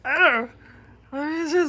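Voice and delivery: high, loud, playful curiosity; cat's curious voice. Pretend. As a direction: voice the cat spotting a toy.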